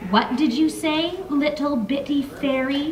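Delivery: slow, menacing taunt; threatening, slow. Acted. Hawksley pressing close to Marissa, slow menace. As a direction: lean in and draw out the threat. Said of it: "he threatened".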